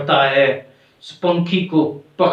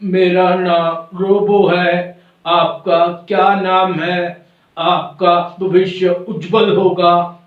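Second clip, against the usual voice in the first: slow robotic recital, evenly spaced words; stilted, drawn-out robot greeting; slower than usual. Acted. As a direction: talk like a programmed toy robot. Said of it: "robo फिर वही बात कहने लगता है".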